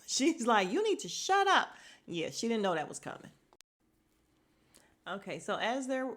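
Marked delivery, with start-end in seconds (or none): 0.7-1.7 loud, high retold snap; mock-angry, raised voice; mad for real. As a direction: imitate her angrily shutting someone down. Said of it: "She was mad for real".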